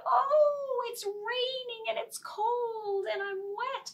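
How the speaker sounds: very high little mouse voice; squeaky mouse. Acted. Mouse begging to come under the mushroom, very high. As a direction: plead in a tiny squeak.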